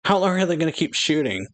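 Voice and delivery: retold yell, lifted in pitch; mock yell. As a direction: imitate a yell without real volume. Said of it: "And Mogo yells".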